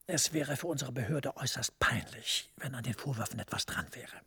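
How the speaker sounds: secretive whisper, hardly voiced. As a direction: lean in and whisper the secret task. Heikle Vorwürfe gegen die Behörde. (verschwörerisches Flüstern)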